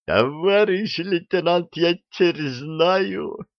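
high, drawn-out excited cry; excited exclamation. A narrator's reading. Gunner to the lieutenant after surviving, high excited cry. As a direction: call out in high-pitched amazement.

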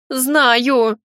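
mild note of despair; despairing exclamation. Acted. Heroine watching the shadow become a jaguar, despairing. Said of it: "с отчаянием воскликнула".

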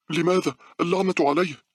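high, loud outraged shout; screaming defiance. A narrator's reading. Girl keeps screaming at the thing, loud high defiance. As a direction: yell back and curse it. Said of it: "لكن مونيكا أكملت صراخها".

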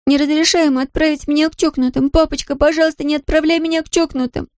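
put-on high, desperate girl's plea; frightened girl begging her father; begging daughter. A narrator's reading. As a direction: beg daddy not to send you away.

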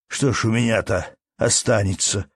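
a touch of despair in the question; mild despairing plea; desperately. Acted. Peasant asking the manager in despair, desperate. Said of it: "говорил отчаянно мужик".

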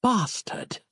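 high, soft pained hiss; hissed curse. A narrator's reading. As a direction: spit the curse after the blow. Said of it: "a hissed utterance of the word".

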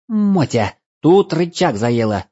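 high, loud alarmed elf; panicked elf. Acted. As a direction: squeal it in alarm. Elf panics at stuck lever.

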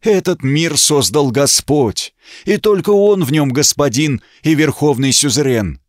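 firm, clear preaching monk. Acted. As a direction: speak clearly and calmly, like a monk. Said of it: "сказал ясным голосом".

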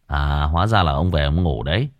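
a reproachful, knowing scold. A narrator's reading. Young man scolding the old man for sleeping. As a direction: catch him out with reproach. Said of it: "cậu mắng".

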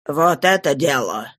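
low, calm approval. A narrator's reading. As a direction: say it low and unruffled. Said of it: "спокойно сказал Жавер".

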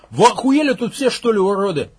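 high, loud furious yell; loud outraged shout; angry yell. Acted. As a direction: tear into them with a yell. Max yelling at cannibals.

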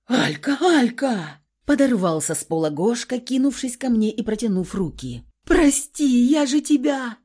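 high, loud, begging cry; desperate plea. A narrator's reading. Husband rushing at his wife, begging. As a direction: call out to her, pleading.

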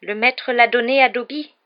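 high, slow elf voice full of wonder; wonderstruck elf. A narrator's reading. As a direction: marvel slowly at an unbelievable gift. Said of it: "dit l'elfe émerveillé".

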